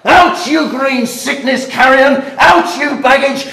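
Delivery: rising fury, rushed; angry tirade. Acted. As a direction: rage at the daughter. Father berates daughter.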